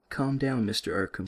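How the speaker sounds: put-on light French accent, nurse's cool calm; a French nurse calming a patient; soothing words in a mild French accent. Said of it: "she says in her French accent".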